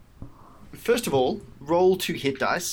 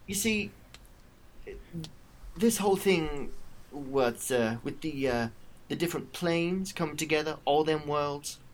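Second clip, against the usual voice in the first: menacing villainess; 5 dB quieter than usual. Acted. Villain explains scheme to captive.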